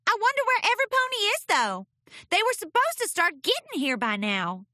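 high, fast puzzled filly. Acted. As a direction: wonder aloud, confused. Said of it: "puzzled expression".

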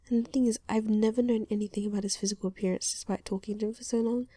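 quick hushed whisper. Real, not acted.

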